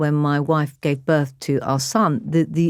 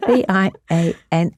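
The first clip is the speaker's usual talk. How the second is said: dreading it; 5 semitones higher than usual. Retold or imitated. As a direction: spell it out letter by letter, dreading each one. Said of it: "I'm dreading it".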